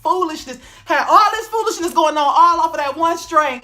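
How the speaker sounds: can't stop laughing; giggling at the foolishness. Real, not acted. Laughing at his own story.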